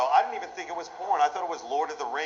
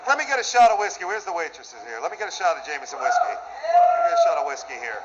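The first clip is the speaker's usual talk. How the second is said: calling for whiskey. Real, not acted. Calling for a drink.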